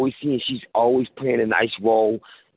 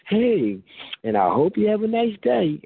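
higher, sweet, creepily polite android; nice android voice; 6 semitones higher than usual. Retold or imitated. Android greets the driver it just got hit by, too sweet and high. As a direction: chirp it like a robot with a frozen smile. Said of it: "talking to you nicely".

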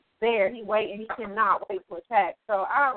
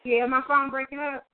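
speakerphone. Real, not acted. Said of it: "I got you on speakerphone".

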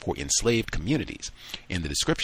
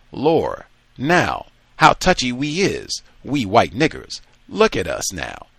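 loud teasing jeer at the touchy one; mocking taunt; 3 semitones higher, 6 dB louder than usual. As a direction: taunt him for his airs. Sambo mocking Adolf, read aloud.

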